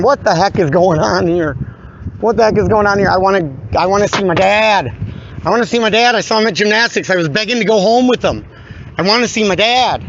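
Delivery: imitated upset child. Man retelling poor Addison begging for dad, mildly imitated upset child. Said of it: "Poor Addison is in there going".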